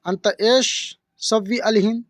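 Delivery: अंत एश सव्वी अलहिन spelled out slowly; slow demo. Shown as a demonstration. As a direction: draw out each Arabic word for the learner. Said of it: "इसको Arabic बोलेंगे". (धीमा, साफ़ उच्चारण)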